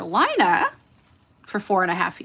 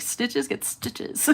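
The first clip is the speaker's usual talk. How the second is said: laughing retort; 6 dB quieter, much slower than usual. Retold or imitated. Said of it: "I was like".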